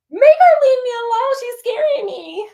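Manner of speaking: put-on little girl hiding behind her dad, crying out; frightened child crying. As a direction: beg daddy through tears. Little girl begging father.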